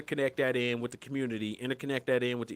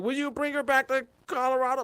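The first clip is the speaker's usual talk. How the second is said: mock asker; 12 semitones higher than usual. Imagined question from someone.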